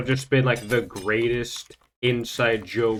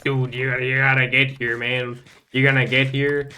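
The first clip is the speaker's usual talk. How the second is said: urgent friend; 3 semitones higher, 7 dB louder than usual. Retold or imitated. Exil urging him by phone.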